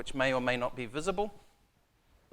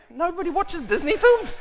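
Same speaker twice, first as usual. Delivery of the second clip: laughing; 9 dB louder than usual. Real, not acted. Audience hasn't seen Moana.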